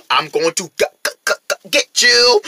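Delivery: mechanical stutter rising in pitch; robot pig. Acted. Pig threatening to get Minji, robotic stutter. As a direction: jam on each syllable, then burst out. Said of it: "acting like a robot".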